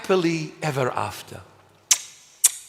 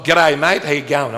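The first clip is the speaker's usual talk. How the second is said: put-on a light Australian accent, a bit louder; a hint of Aussie twang on g'day mate; playful Australian accent, greeting the comedian; 3 dB louder than usual. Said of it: "there is this Aussie comedian".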